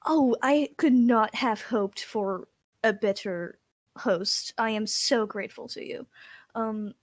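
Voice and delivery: slow, lightly put-on grateful lady; fancy noblewoman. Noblewoman thanking her dwarf host, fancy. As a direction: draw it out with genteel gratitude.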